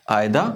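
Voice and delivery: Either as "aai-da", no R; silent R. Shown as a demonstration. Teacher modelling for learners, Either without R. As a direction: end Either on an open "da". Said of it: "इसका हमने आर नहीं पढ़ा".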